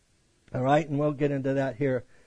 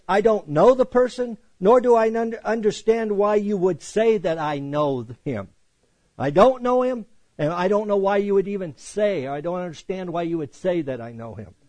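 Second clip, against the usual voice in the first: firm, insistent denial, a bit raised; emphatic denial; 3 semitones higher than usual. Retold or imitated. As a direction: deny it flatly and hard. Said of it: "in the most emphatic terms".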